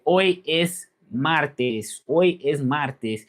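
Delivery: slow demonstration of "Hoy es martes"; "Hoy" as oy, silent h, drawn out slowly; Spanish pronunciation. Shown as a demonstration. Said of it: "wanna say it in Spanish".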